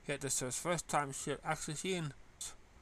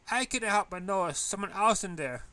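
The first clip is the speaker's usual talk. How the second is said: teasing voice; 7 semitones higher, 8 dB louder than usual. Acted. Teasing character line.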